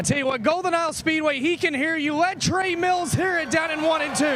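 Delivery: high, fast, rousing call; crowd hype. Real, not acted. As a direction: get the crowd roaring. Rallying crowd to cheer.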